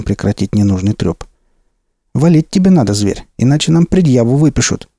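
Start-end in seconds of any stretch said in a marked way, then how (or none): 2.1-4.9 higher, pushy thug; urgent bandit voice. Acted. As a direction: press him to run. Bandit urges Max.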